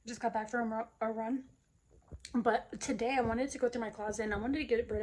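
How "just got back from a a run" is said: short of breath after running; panting lightly from a run; after a workout. Real, not acted. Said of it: "excuse my short breath".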